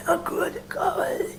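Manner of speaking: high breathy whisper. Retold or imitated. Actor showing the character's breathy line, whispered. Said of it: "So there will be breath".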